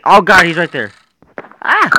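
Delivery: high alarmed cry; panicking gamer. Real, not acted. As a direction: yelp as danger closes. Skeleton approaching the house.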